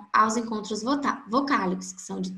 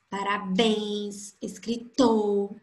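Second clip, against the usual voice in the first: parabéns and escritor slowed, final BÉNS and TOR held; stress on last syllable; much slower than usual. Shown as a demonstration. Teacher lists examples for students, last syllables of parabéns and escritor stretched. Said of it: "a última sílaba delas são todas fortes".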